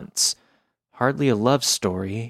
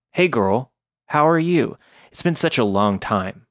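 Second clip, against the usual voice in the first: put-on valley girl voice. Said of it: "none sounded like a valley girl on uppers".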